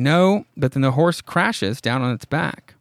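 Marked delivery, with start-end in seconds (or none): 0.0-0.5 retold scream. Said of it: "Pudge is screaming".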